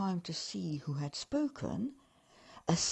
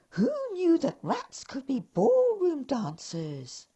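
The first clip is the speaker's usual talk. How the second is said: higher, louder wondering elf; amazed elf; 7 semitones higher, 7 dB louder than usual. Acted. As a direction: elf marvelling aloud. Elf awed.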